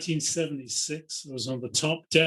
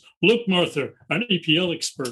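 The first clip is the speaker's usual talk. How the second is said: loud, put-on American accent; 3 semitones higher, 6 dB louder than usual. Retelling what a stranger behind on the bus said, imitating an American accent. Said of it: "in an American accent says".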